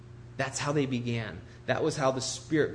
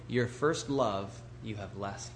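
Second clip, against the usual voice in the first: "love" weighted, then a slow, lower "you have left"; stress on love; 3 semitones lower, 4 dB quieter, slower than usual. Shown as a demonstration. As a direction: lean on "love", slowing through the line. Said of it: "Putting the emphasis on the love".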